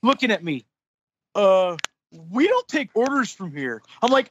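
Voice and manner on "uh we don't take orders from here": lightly voiced dim yokel; dopey opening "uh", then the stock refusal; slack-jawed yokel manager. Manager answering an angry customer, slack-jawed yokel. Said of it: "looking like a slack-jawed fucking yokel".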